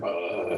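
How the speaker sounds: low zombie moan; zombie groan. Shown as a demonstration. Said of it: "Maybe make a zombie noise".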